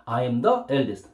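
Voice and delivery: slow model sentence. Shown as a demonstration. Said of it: "따라합니다".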